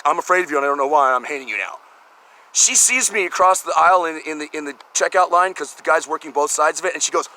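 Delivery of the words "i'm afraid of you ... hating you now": lightly voiced nervous stranger, quick; a hint of a scared, hateful stranger; mock fearful leer.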